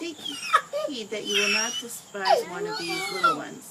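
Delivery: loud, high sobbing through the words; real tears breaking through every word; crying. Real, not acted. Mother sobbing while reading scripture to her son.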